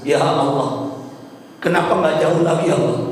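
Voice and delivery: understated, imitated dying lament; retold tearful plea. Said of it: "suamiku berkata sambil melihat ke atas menangis".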